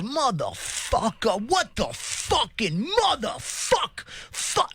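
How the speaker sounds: drawn-out, high-pitched mock cursing; angry stranger. Man retells a subway stranger cursing after a near collision, angrily. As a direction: stretch each curse out high, like an irate stranger. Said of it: "And he goes".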